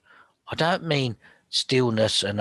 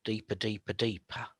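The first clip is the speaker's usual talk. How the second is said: hypnotic deeper; 6 dB quieter than usual. Shown as a demonstration. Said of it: "one step deeper".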